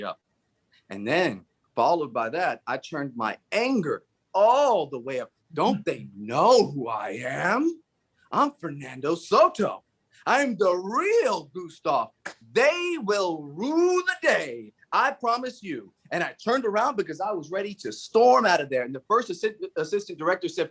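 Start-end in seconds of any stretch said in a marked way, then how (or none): 5.5-15.9 mock diva outrage. Angry diva rant after anger turned up.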